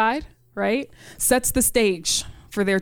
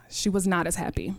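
whispered under the breath; hushed aside; 2 semitones lower, 5 dB quieter, faster than usual. Real, not acted. Storyteller whispering about her mother's reaction. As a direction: drop to a whisper for the punchline.

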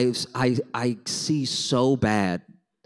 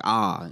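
mouth open ah; 5 semitones lower than usual. Shown as a demonstration. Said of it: "I was like".

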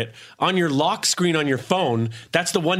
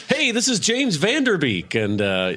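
Cameo celebrity. Pretend. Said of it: "order a Cameo".

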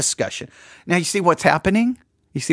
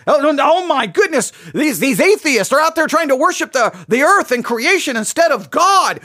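higher, excited alarmed gasp; mock outrage; 6 semitones higher than usual. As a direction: play up the crowd's shock. Voices the fired-up congregation.

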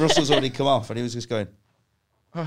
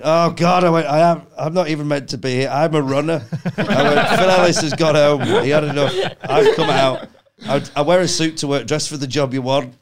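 frantic rant; 3 semitones higher, 7 dB louder than usual. Retold or imitated. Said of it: "So then I went".

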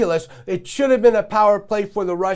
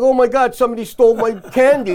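mock confused fan; 3 semitones higher, 4 dB louder, faster than usual. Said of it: "looking around like this face".

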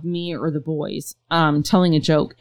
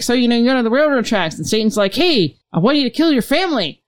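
Norm telling the joke; 5 semitones higher than usual. Retold or imitated. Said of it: "he's like".

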